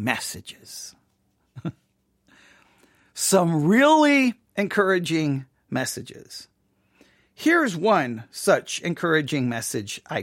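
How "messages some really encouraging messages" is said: sarcastic whisper. Acted. Sarcastic reveal of hate mail.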